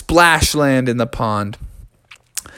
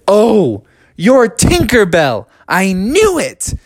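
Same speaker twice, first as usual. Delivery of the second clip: raised, louder, slow exclamation; delighted realization; 4 semitones higher, 4 dB louder, slower than usual. Acted. Froggy realizing who the fairy is, raised slow exclaiming. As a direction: stretch out the sudden recognition.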